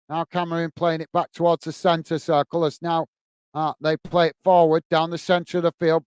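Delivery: steady running match commentary; a light play-by-play read; live play-by-play. Acted. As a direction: call the action as it unfolds.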